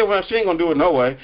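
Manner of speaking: low, fast, dismissive aside; gossiping church member. Retold or imitated. Preacher voicing church folks dismissing a prideful member, low fast aside. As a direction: mutter it off like she's not worth asking.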